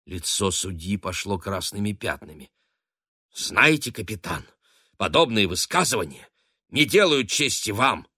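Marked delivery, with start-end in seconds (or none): 3.3-8.1 higher and louder, sharp reproach; barking rebuke. A narrator's reading. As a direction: bark the rebuke at the captain. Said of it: "рявкнул он".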